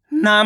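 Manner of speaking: ना with a long, held aa; ना pulled out long as a reading demo; drawn-out vowel. Shown as a demonstration. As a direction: stretch the vowel of ना. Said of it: "ना को खींच के पढ़ दिए".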